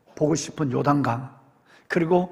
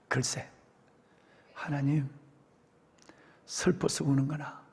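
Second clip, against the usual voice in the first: much softer, close and intimate; hushed confession; 3 semitones lower, 10 dB quieter than usual. A narrator's reading. Moses answering God after tears, hushed confession. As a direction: speak low as if confiding in God.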